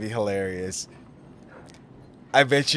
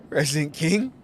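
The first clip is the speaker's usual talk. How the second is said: laughing disbelief; 6 semitones higher than usual. Acted. Laughing at the title.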